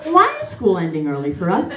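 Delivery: a hint of a prim little girl telling a sad tale; mock prim storybook child. Mocking her nanny's tale in a prim child voice. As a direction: innocent storybook child, lightly played. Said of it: "Bitch, you didn't talk like that".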